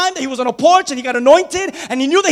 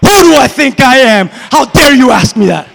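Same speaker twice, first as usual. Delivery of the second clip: indignant shout; 8 dB louder than usual. Acted. David hurls an outraged retort at Goliath. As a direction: throw the question back at him.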